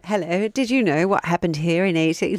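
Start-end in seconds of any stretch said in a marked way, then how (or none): 0.0-0.5 put-on voice. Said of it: "Why is that a voice?".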